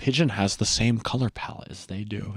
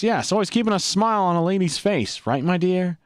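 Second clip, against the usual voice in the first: put-on Italian gangster accent. Gangster keeping a lady smiling, Italian accent. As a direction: charm her in a bad Italian accent. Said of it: "I go in full Italian mode".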